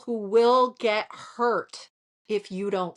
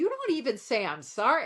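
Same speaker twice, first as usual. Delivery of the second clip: retold mild anger; 4 semitones higher, faster than usual. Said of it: "I was so mad".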